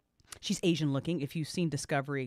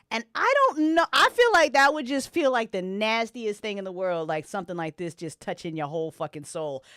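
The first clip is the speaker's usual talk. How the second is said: intense narration; 6 semitones higher, 11 dB louder than usual. A narrator's reading. GM describing soul-touching horror.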